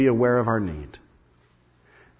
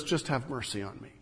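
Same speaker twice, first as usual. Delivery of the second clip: humble plea; 4 semitones lower, 12 dB quieter than usual. Acted.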